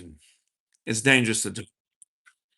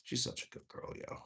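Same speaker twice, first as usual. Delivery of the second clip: talking to a dog; 18 dB quieter than usual. Real, not acted. Cooing to the pet.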